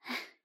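soft, wordless sigh. A narrator's reading. Wife sighing before answering her husband, weary sigh. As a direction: let out a quiet sigh. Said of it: "丽娟叹了口气".

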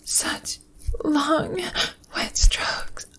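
breathy moans with rising pleasure cries; aroused moaning. Acted. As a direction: moan it, building to climax. Aroused moaning during sex scene.

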